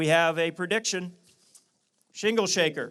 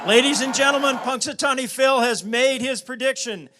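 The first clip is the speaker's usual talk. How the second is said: announcer voice; 4 semitones higher, 7 dB louder than usual. Acted. Announces result to crowd.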